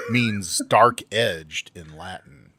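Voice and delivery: slow, loud mock Aussie accent; Australian accent. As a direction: drawl it out in a fake Australian accent. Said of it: "are you trying to speak Australian now?".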